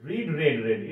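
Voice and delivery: "রিড" with ee, then "রেড, রেড" with e; contrasting verb-form vowels. Shown as a demonstration. Teacher drilling three forms, ee in "রিড" then e in "রেড, রেড". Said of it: "এটা কিন্তু উচ্চারণটা".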